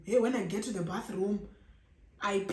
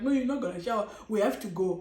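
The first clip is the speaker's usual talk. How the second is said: serious; 6 dB louder, faster than usual. Retold or imitated. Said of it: "So it was now serious".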